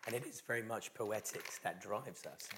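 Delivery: strained, failing voice; a voice giving out; losing voice. Real, not acted. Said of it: "I've been losing my voice this week".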